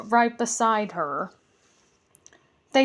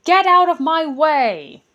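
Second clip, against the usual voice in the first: high, loud angry goblin yell; goblin shout; 6 semitones higher, 8 dB louder than usual. Acted. Goblin pushes the other out of the way, shouting. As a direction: shove past with a shout.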